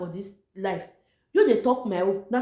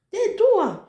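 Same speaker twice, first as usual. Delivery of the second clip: laughing; 10 semitones higher, 5 dB louder than usual. Real, not acted. Excited repeat with a laugh.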